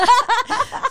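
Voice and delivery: gargalhada aguda e alta; risada aguda. Real, not acted. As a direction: solta uma risada bem alta. Risada após imitação. (risada aguda e alta)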